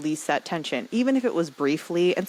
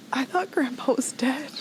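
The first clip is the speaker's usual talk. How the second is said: whispered, higher, numb disbelief; quiet whisper; 7 semitones higher than usual. Retold or imitated. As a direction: breathe it out in a stunned whisper. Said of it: "she just quietly is like".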